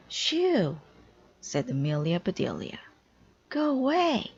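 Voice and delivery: shooing a bee. Acted. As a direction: chase the bee off with high yelps. Swatting at a bee.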